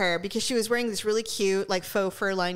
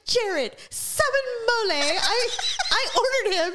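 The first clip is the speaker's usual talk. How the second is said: put-on loud drunk call; 12 semitones higher than usual. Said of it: "he's really loud".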